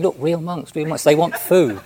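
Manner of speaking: mock-thrilled, showing the monks off to the street; excited old lady. Old lady telling passersby about the monks, imitated with excitement. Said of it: "she became very excited".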